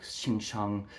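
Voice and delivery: "Xing Shang" muttered softly under the breath; softly imitated slur "Xing Shang"; retold whisper. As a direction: drop to a hushed aside on "Xing Shang". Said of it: "he whispered in his, his mouth".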